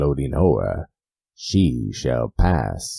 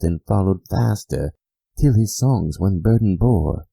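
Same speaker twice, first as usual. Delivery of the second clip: higher and louder, building; reasoning, mounting; 5 semitones higher, 3 dB louder than usual. Acted. The narrator explains the bird's word, higher and rising. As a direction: argue it away, getting worked up.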